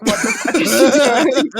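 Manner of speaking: laughing mock bafflement. Imagining partner's reaction to the sext, laughing.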